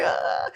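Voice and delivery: short mock scream, held open; imitated scream. Parent imitating son screaming on the roller coaster, mock scream. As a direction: imitate a child's scream on the ride. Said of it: "he's screaming".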